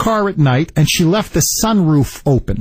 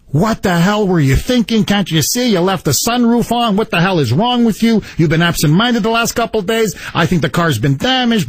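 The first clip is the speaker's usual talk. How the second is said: mock angry rant, pitch up; retold yelling; 4 semitones higher than usual. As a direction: reenact yelling at the wife, mildly raised. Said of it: "like, you know, yell".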